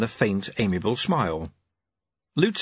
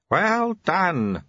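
raised, pleased and beaming praise; 8 semitones higher than usual. Acted. Sweeper praises the novice, beaming. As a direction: glow with pride at him.

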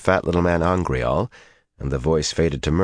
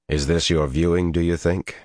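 calm; 2 semitones higher than usual. A narrator's reading. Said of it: "he asked calmly".

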